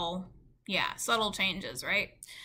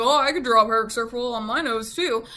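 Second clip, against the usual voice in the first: louder mock voice of everybody; mimicked objection; 7 dB louder than usual. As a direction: lightly parody people chiming in. Mimicking everybody's objection about nose.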